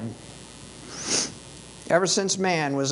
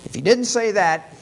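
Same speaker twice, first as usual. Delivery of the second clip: stern warning; 3 semitones higher than usual. Retold or imitated. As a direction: lay down the law with menace. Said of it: "Lavan goes on to say".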